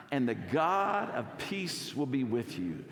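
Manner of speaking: slow, emphatic joyful declaration; joyful recitation. Shown as a demonstration. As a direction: stretch out the key words with joy. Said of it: "gonna say this with joy".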